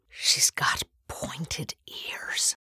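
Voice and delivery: slow, hushed whisper full of wonder; thrilling whisper. A narrator's reading. Priest whispering to the girl, thrilled hushed whisper. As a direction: breathe it out like a secret. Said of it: "said Father Cassidy in a thrilling whisper".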